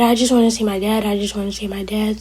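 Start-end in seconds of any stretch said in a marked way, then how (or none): 1.1-2.2 quieter, softer, almost whispered; fading whisper. Retold or imitated. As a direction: drop it to a soft broken whisper. Grieving son repeats his plea.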